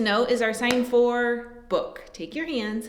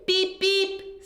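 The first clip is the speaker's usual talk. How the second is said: higher toy truck beep; truck horn beep; 6 semitones higher than usual. Acted. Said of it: "said Blue".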